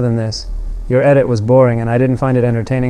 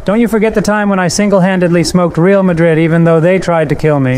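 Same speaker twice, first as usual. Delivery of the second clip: indignant; 6 semitones higher than usual. Acted. Indignant comeback to rival.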